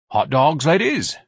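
lightly voiced, pleasant hawker's call; pleasant Ignatius. A narrator's reading. Ignatius offers hot dogs to the art show ladies, pleasantly. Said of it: "Ignatius asked pleasantly".

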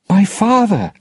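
high, loud cry across the water; shouting. Acted. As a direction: call out to her father. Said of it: "she shouted".

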